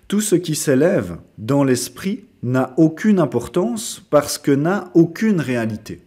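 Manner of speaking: measured recitation, set apart phrases; poem reading. Acted. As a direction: read the verse out deliberately. Reads a poem aloud. (lecture de poème bien articulée)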